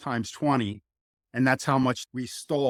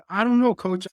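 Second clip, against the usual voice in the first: sheepish student; 8 semitones higher, 6 dB louder than usual. Retold or imitated. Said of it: "I'm just like".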